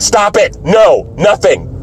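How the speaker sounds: mildly shouted objection; retold protest. Retells protesting at the cheering.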